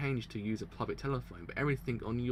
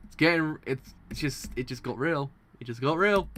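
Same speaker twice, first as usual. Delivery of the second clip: loud and pumped up; excited; 2 semitones higher, 7 dB louder than usual. Real, not acted. Streamer cheering the plot turn, loud and pumped. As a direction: hit it like a hype man. Hyped by the JoJo scene.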